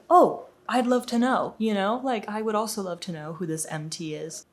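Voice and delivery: sarcastic. Retold or imitated. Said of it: "And I was like".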